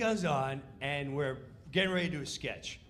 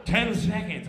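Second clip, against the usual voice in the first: countdown call; 4 semitones higher, 8 dB louder than usual. Retold or imitated. Stage manager countdown.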